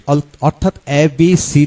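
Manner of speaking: normal talking voice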